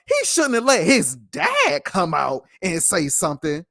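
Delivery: slow, sneering mock of pundits; mocking the media. Host mimicking media critics of Odell, slow mocking sneer. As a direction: parrot the critics with contempt. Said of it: "people in the media talking like".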